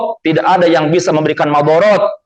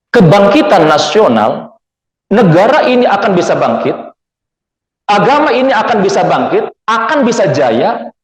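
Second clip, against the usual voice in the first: rousing preaching; 2 semitones higher than usual. Real, not acted. Preacher rallies the congregation.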